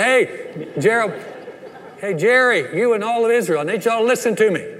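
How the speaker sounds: loud call across the field, quick at the end. Retold or imitated. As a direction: hail the enemy king to make him listen. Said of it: "and he yells out".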